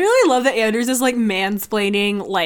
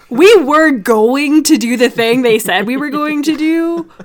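Stephen A Smith voice; 3 semitones higher, 6 dB louder than usual. Retold or imitated. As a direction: ham it up like a TV sports pundit. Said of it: "fucking Stephen A voice".

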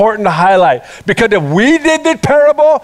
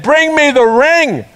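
slow, higher, with a laugh in it; grand command; 4 semitones higher, slower than usual. Retold or imitated. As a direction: savour the big moment, slowly. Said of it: "He said".

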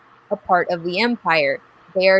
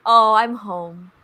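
relieved sigh; 2 semitones higher, slower than usual. Retold or imitated. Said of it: "I was just like".

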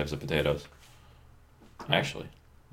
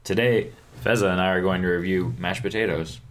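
mock podcast host.

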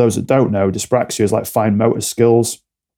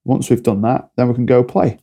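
put-on calm to a child. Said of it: "I'll just ask them quietly".

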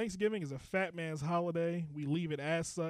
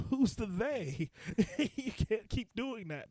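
high, slow, laughing disbelief; laughing scold; 5 semitones higher, slower than usual. Retold or imitated. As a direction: scold her through laughter.

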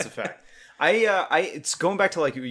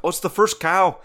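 bad Scottish accent; 6 semitones higher, 4 dB louder than usual. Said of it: "that was a terrible Scottish accent".

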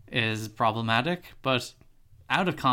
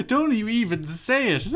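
high, loud horrified outburst; outraged shout; 8 semitones higher, 7 dB louder than usual. Real, not acted. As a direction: shout it down in horror. Outraged at re-election talk.

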